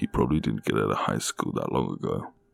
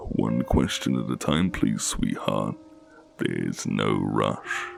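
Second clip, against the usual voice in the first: slow, lightly deeper teasing man; slower than usual. Acted. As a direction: draw it out, teasing and unhurried. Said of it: "His voice is teasing, deep".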